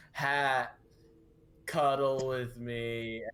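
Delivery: slow flat monotone voice; deadpan, no feeling at all. Acted. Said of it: "Just in that flat monotone voice".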